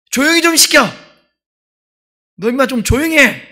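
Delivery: loud, high, mock-angry yell; acted scolding shout. Preacher acts out scolding chattering children, angry shout.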